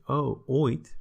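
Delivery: a light, dismissive "Oh, ooit"; offhand "ooit". Shown as a demonstration. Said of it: "But if you then say".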